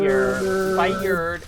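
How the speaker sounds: pun line. Pretend. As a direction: deliver it like a boss firing someone. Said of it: "look at them and be like".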